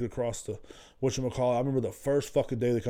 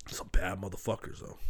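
whispered awe; 4 semitones lower, 7 dB quieter than usual. Real, not acted. Awed aside about tough men.

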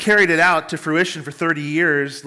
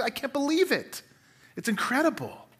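voicing Elizabeth, higher and softer, lightly acted; humble Elizabeth; 7 semitones higher, 6 dB quieter than usual. Preacher voices Elizabeth's disbelief, humble and hushed. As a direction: say it as a humble, amazed old woman. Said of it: "Can you hear the humble posture in her voice?".

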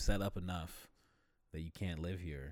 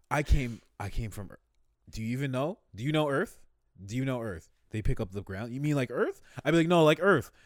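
very high, loud, flustered explaining; flustered high pleading; 7 semitones higher, 14 dB louder than usual. Pretend. To the puzzled Mars people, flustered high pleading. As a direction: plead squeakily, lost for words.

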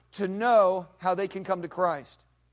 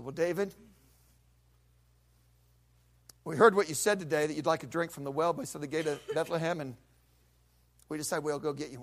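humble offering. Retold or imitated. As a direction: speak it humbly. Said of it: "Those three guys step up and said".

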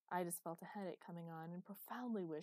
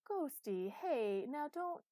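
loud, pitched-up call; calling after someone; 9 semitones higher, 8 dB louder, much slower than usual. A narrator's reading. Chloe calling as Master walks out, urgent. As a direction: call out to stop them leaving.

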